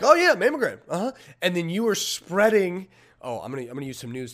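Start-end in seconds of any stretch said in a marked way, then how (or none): 0.0-1.1 clueless agreement. Retold or imitated. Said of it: "and are like".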